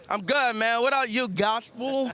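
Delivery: gushing red carpet chatter. Real, not acted. Hype greeting to outlet camera.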